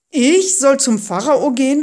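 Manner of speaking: loud, high, startled question; alarmed. A narrator's reading. Moses told to face the Pharaoh, alarmed. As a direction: balk at the order in alarm. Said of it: "fragte Mose erschrocken".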